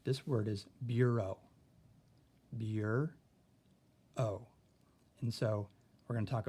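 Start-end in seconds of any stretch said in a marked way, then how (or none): 0.9-1.4 bureau ending in a clear long O. Shown as a demonstration. Teacher introducing the French word bureau. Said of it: "this word has a long O in it". 2.6-3.1 Bureau said again, long O at the end; bureau repeated. Shown as a demonstration. Teacher repeating the tricky French word. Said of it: "this word has a long O in it".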